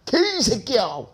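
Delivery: a lightly voiced angry teenage boy; sleepy curse. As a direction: blurt out a curse like a boy startled awake. Sleeping boy swears when woken.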